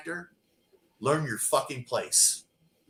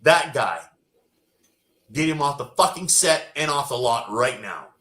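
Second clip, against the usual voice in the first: firm order; 5 dB louder than usual. Retold or imitated. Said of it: "tells the casting agent".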